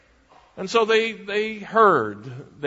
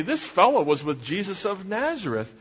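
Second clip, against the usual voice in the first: firm, higher-pitched accusation; more definite; 5 semitones higher than usual. Acted. Woman accusing Peter before bystanders, more definitely. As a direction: point him out with certainty. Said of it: "said a little more definitely".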